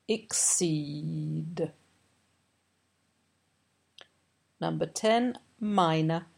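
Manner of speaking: each word read slowly and clearly for dictation; carefully spaced dictation reading with long pauses; teacher slowly dictating test words to students. Shown as a demonstration. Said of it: "I'm going to read aloud slowly".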